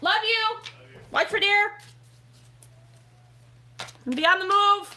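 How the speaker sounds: yelling with the voice pitched way up, shrill. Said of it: "Sorry for the yelling".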